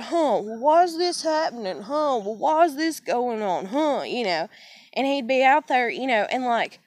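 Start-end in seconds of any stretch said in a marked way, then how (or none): 0.0-4.0 imitating dad. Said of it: "he'd be like".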